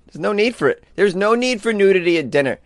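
high, stressed "need"; emphatic. Real, not acted. To listeners on the naked restaurant, insisting.

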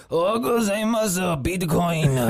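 high, hammed-up anime voice; exaggerated high-pitched imitation; mocking mimicry. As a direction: parody a theatrical Japanese pitchman. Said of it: "not us making fun of him".

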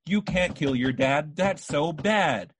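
slow, emotionless line reading; flat monotone acting. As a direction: read it like a bored bad voice actor. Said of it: "No emotion".

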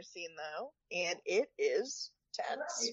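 hushed, slow dramatic whisper. Acted. Teasing friends about the tense dinner scene, slow whisper. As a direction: drop to a whisper to build suspense.

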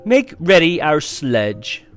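slow, high, loud command; imperious queen to her servant; ordering. A narrator's reading. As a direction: command it with cold authority. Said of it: "ordered the witch".

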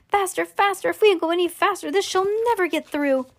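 high, excited, racing urging; urgent cry. A narrator's reading. Wonka banging on the lift walls, urgent cry. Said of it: "cried Wonka".

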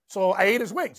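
ordinary talk, nothing marked

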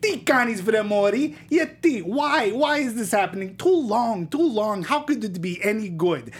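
lightly put-on Greek accent; a hint of a Greek accent. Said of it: "I'm gonna do my opinion in, in my Greek accent".

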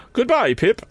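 cold lady of the house looking them over; Miss Havisham. A narrator's reading. Miss Havisham addressing Joe, haughty.

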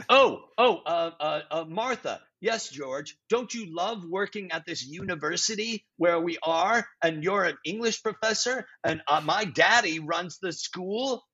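hammed-up exposition to a scene partner; stilted play dialogue. Improviser mocking George and Martha exposition, lightly stilted. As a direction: act out clunky stage dialogue, lightly put on. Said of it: "Nobody talks like that".

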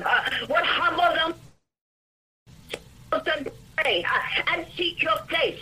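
forceful declaring prayer voice; fierce commanding prayer. Acted. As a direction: rebuke and decree with authority.

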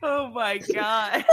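breathless, slow, laughing whisper. Real, not acted. To her co-host, slow laughing whisper. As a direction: gasp it out through laughter.

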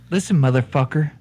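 put-on gruff Irish accent. Con man threatening the bartender, in an Irish accent. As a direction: lean into an Irish brogue. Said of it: "You just switch the fucking accent".

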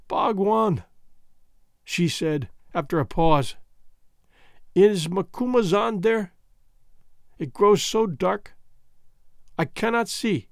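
put-on faint, fading voice of a wounded girl; dying young woman. Foulata telling Bhagwan how Gagool stabbed her, weakly. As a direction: speak as if life is slipping away.

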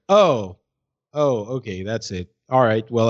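usual speaking voice

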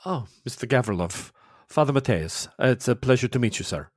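lightly voiced Italian priest, courteous and mild; a hint of a kindly Italian father greeting a guest. The priest greeting Faye, lightly Italian and courteous.

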